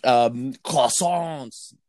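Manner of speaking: slow mock French accent, laughing; french chef. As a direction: drawl out croissants in a French accent. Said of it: "I'm fluent in French".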